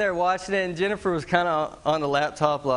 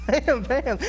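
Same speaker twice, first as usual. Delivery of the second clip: impact noises; 9 semitones higher than usual. Retold or imitated. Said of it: "they're just like".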